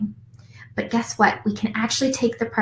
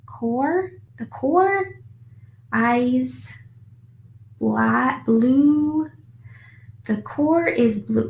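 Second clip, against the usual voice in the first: halting word-by-word reading; staccato beginning reader; 4 semitones higher, much slower than usual. Shown as a demonstration. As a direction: stumble through like a beginner. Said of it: "read a paragraph to you in a staccato word-by-word pace".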